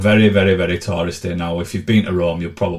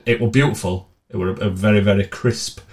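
mock food critic. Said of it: "I'm turning it a food critic".

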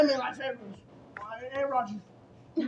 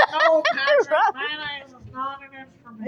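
slow, lightly put-on cartoon voice; a hint of a fussy cartoon neighbor; cartoon character voice; slower than usual. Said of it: "and he's like".

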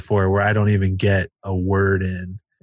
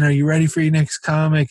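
host rousing crowd; 5 semitones higher than usual. Retold or imitated. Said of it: "Let's try this again".

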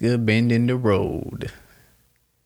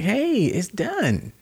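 slow, raised mock-calm; higher, slow "it's done" said to an angry mate; slow, soothing brush-off; 8 semitones higher, slower than usual. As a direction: drag it out, laughing it off. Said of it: "and I'm like".

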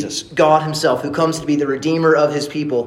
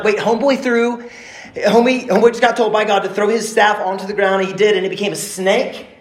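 shocked reader; 4 semitones higher than usual. Retold or imitated. First-time reader's shock.

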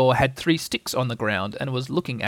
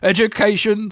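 bitter; 8 semitones higher, 6 dB louder than usual. A narrator's reading. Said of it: "said Eeyore bitterly".

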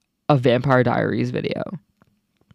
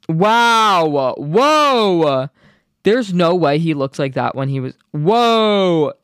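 amazed by the photos; awed whoa; 3 semitones higher, much slower than usual. Real, not acted. Reacting to old photo.

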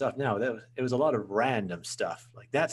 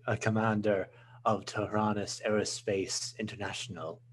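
put-on light Irish accent, friendly. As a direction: introduce yourself as a character in an Irish accent. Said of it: "I love the Irish accent".

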